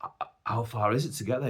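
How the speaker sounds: composed, restrained polite question; politely hesitant; polite asking. Retold or imitated. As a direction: ask politely, holding back the outburst. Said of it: "So I politely ask".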